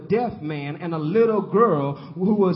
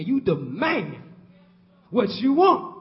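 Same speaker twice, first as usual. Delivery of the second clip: louder, rising on what you want; forceful declaration; 5 dB louder than usual. Real, not acted. Preacher urging the church to demand boldly. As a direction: demand it from the pulpit.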